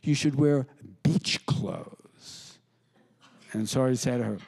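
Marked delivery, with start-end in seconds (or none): 0.0-2.6 Buckley impression. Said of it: "and it's Buckley".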